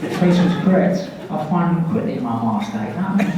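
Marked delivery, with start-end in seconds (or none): 1.3-2.8 Darth Maul line in a Scottish accent. Shown as a demonstration. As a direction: say the villain's line in Scots. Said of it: "my line would have been like".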